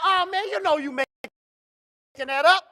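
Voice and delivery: slow, drawn-out doubting tone; slow mock disbelief. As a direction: drag it out like you don't buy it. Acted quote of disbelief.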